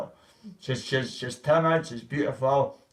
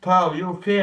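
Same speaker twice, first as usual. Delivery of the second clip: raised, polite concerned question; polite check-in; 4 semitones higher, 5 dB louder than usual. Retold or imitated. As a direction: ask politely if they're all right, pitched up. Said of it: "In polite, I was like".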